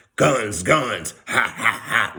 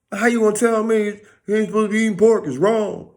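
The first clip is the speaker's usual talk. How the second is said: fast, higher indignant challenge; indignant retort; 7 semitones higher, faster than usual. Retold or imitated. One man scolding another over pork, quick and indignant. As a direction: rush the rebuke, a bit pitched up. Voicing the other side.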